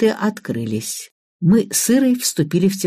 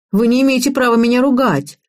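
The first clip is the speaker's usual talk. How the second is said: put-on higher-pitched girlish protest; indignant; 6 semitones higher than usual. A narrator's reading. Girl protests at being scolded by the game, indignant. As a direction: object with mild indignation. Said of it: "возмутилась Иришка".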